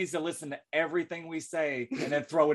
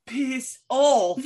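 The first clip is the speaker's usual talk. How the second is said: higher-pitched mock-British dismissal; bad British accent; 6 semitones higher, 4 dB louder than usual. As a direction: put on a terrible British accent. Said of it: "super bad British accent".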